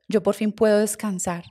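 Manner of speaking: slow, soft voice of the dead uncle; gently, slowly, like a voice from beyond; soft dead uncle's voice. Retold or imitated. El tío muerto le habla. (voz suave y lenta del tío fallecido, sereno)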